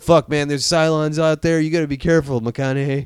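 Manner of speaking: a hammed-up warning from the crew; mock soldier warning. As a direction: play the wary fleet crew. Fleet soldiers warning McConaughey.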